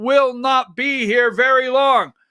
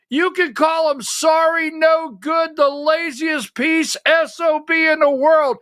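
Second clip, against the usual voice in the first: heated shout; 4 semitones higher than usual. Real, not acted. Angry rant about sorry labels.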